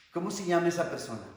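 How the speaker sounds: acted counselor asking quickly; brisk question. Counselor asking who is behind the suffering, brisk question.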